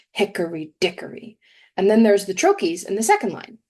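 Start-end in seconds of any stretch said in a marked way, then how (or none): 0.1-1.4 HICKory DICKory, weight on each first syllable; stress on first syllables. Shown as a demonstration. Teacher showing listeners the dactyls, first-syllable stress. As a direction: lean on HICK in hickory and DICK in dickory. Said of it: "You can hear it in the first syllable".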